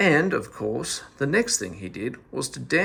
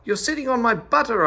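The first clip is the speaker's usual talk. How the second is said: much higher, louder shout on on; louder yell; 10 semitones higher, 5 dB louder, faster than usual. A narrator's reading. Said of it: "yelled at him all the more".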